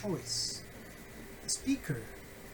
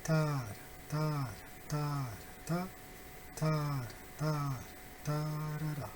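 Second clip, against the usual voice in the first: long, falling "ta" beats, spaced out; nonsense-syllable rhythm demo; rhythm pattern; 4 dB quieter than usual. Shown as a demonstration. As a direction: chant the stress pattern on "ta", drawing out each beat. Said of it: "we have almost the same pattern".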